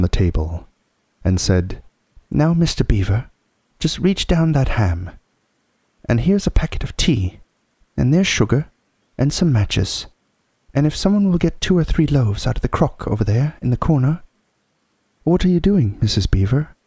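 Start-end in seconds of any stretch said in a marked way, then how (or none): 2.3-14.2 high-pitched, busy motherly figure; Missus Beaver, brisk housewife. Acted. Mrs Beaver directing the packing, unflustered. 15.2-16.7 put-on high girl's voice, mildly taken aback; exclaiming. A narrator's reading. Susan questioning Mrs Beaver's packing, exclaiming. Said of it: "exclaimed Susan".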